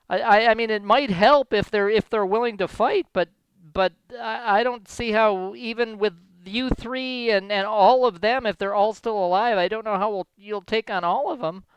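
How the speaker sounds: understated, faltering mayor voice; terrified mayor. Acted. Mayor doubting the three can take on kobolds, mild stammering worry. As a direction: hesitate and restart as a worried official. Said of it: "the mayor seems to be terrified".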